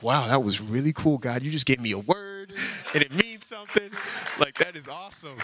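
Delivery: playful awestruck reaction; mock amazement. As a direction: retell being thrilled, half laughing. Acts out amazed reaction to God.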